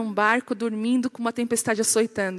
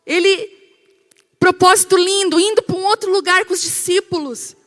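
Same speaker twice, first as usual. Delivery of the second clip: high, dramatic mock dismay; incredulous objection; 5 semitones higher, 3 dB louder than usual. Believer wondering about Jesus in a storm, incredulous. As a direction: voice a puzzled believer, pitched up. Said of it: "Porque você pensa assim".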